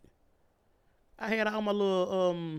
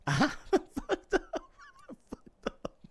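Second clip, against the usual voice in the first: I done fucked up in a much higher, squeaking voice; squeaky panicked falsetto. Shown as a demonstration. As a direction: squeal the realization in a tiny high voice. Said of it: "now I'm thinking to myself".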